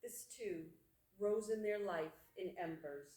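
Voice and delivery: measured poem recital with long pauses; poetry reading. Acted. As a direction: read it as verse, phrase by phrase. Reads own poem aloud.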